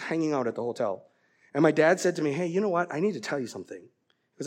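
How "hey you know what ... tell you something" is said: tender confession. Retold or imitated. Voices dad's tender confession to son.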